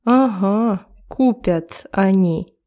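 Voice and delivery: mildly sarcastic "Ага, купят они"; understated sarcasm, meaning they never will. Shown as a demonstration. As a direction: demonstrate a dry, disbelieving retort. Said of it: "сарказм".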